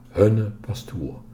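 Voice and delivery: slow, with stress on "Hunne"; nadruk op HUNNE. A narrator's reading. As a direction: linger on the word "Hunne". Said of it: "Nun op hunne". (langzaam, met klemtoon op "Hunne")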